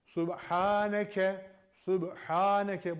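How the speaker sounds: Subhaneke drawn out slowly, each syllable clear; slow Quranic recitation. Shown as a demonstration. Teacher reciting slowly for students to follow. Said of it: "Peki arkadaşlar".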